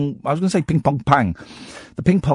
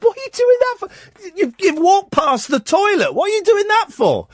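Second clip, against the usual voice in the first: laughing while asking. Retold or imitated. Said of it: "I just started laughing".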